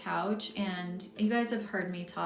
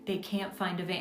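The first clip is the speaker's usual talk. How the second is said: a hint of a solemn old wise woman; wise crone. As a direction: retell her friend's advice as a calm, knowing crone. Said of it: "like she's this wise crone".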